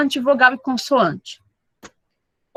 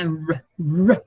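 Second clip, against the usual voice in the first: growled r; 5 semitones lower than usual. Shown as a demonstration. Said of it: "parece um cachorro latindo".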